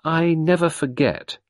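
mock sinister old woman; a hint of menacing Mrs Boynton; lightly voiced threatening old woman; quoting the old woman. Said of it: "that's what she said".

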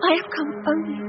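soft, tearful plea; tearful pleading. Acted. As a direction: beg through tears. Maria pleading tearfully on knees.

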